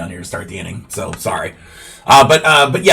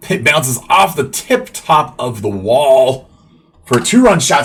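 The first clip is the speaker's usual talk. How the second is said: excited home run call; 2 semitones higher, 4 dB louder, slower than usual. Real, not acted. Ball clears the wall.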